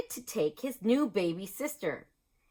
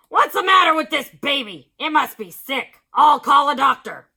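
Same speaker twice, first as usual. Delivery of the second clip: baffled principal; 4 semitones higher, 11 dB louder than usual. A narrator's reading.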